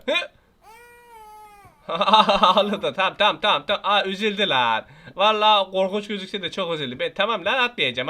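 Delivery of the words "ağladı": laughing it out mid-word; amused laugh. Real, not acted. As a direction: chuckle through the word. Baby cries, he laughs.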